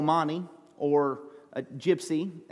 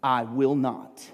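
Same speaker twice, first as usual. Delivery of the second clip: imitating cold refusal; 4 semitones lower, slower than usual. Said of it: "she looked at us and she said".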